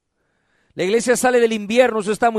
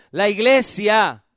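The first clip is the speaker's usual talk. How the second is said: slow model phrase to repeat; slower than usual. Shown as a demonstration. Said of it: "Diga conmigo".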